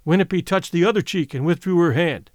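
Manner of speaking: ordinary delivery, nothing marked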